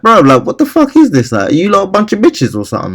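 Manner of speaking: high-pitched exasperated outburst, imitating himself; retold losing it. He loses it at the jeering gym dudes, high exasperated. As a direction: blow up at the crowd. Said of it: "I kinda lost it a little bit".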